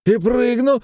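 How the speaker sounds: put-on high drunken yell; high boastful drunken cry. A narrator's reading. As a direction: bellow it out boastfully. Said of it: "завопил Галушкин".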